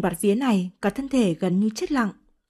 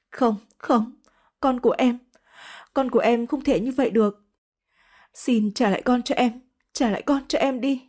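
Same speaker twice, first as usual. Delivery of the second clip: put-on slightly raised, tearful begging for her child; anguished pleading; 2 semitones higher than usual. Grieving mother begs her lover in tearful pleading. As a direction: plead desperately, voice straining. Mother learns baby is lost.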